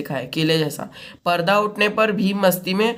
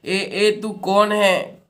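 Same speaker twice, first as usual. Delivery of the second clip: slow, drawn-out menacing call; demon's challenge; 2 semitones higher, much slower than usual. Acted. Bakasur challenges the stranger, slow and menacing. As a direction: stretch the ए like a demon. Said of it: "बकासुर".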